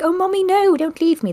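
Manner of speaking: put-on high wailing little-kid plea; pretend crying child. Shown as a demonstration. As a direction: beg like an abandoned child. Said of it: "Maybe go like".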